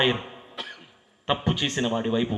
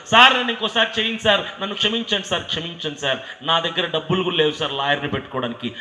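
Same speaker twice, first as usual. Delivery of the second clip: pleading, crying; 6 semitones higher, faster than usual. Retold or imitated. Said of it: "ఏడుస్తున్నాడు, అల్లాడిపోతున్నాడు".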